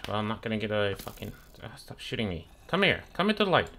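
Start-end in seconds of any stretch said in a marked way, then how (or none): 2.7-3.7 high-pitched taunting call. Real, not acted. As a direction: lure the enemy over with a high call. Calling a game enemy over.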